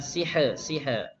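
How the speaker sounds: "sihr" ending in a bounced, rebounding r; "sihr" with an echoing r release, the wrong way; bouncing r. Shown as a demonstration. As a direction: bounce the final r of "sihr" as the mistake. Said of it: "Haknya jangan mantul ya".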